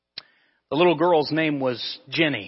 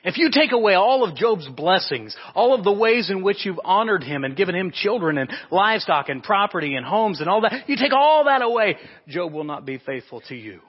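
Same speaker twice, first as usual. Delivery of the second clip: rising, louder, taunting challenge to God; Satan's challenge; 5 semitones higher, 4 dB louder than usual. Acted. Satan taunting God about Job, rising and louder. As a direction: sneer it like the accuser daring God.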